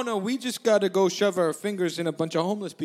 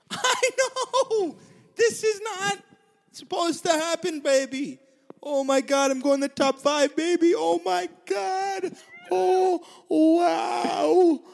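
excited; 7 semitones higher, slower than usual. Real, not acted. Thrilled about making the merge.

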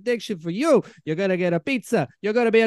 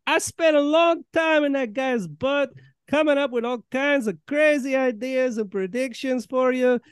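a touch higher put-on prophet voice; Nostradamus voice; 4 semitones higher than usual. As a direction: keep the prophet character going. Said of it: "It's me, Nostradamus".

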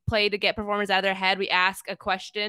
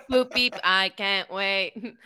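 slow toy robot voice, beeping; 3 dB louder, much slower than usual. Pretend. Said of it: "Improvtron three thousand, excited".

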